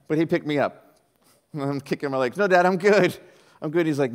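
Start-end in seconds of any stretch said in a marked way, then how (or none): 2.4-3.9 mock kid protest. Child kicking as dad carries him.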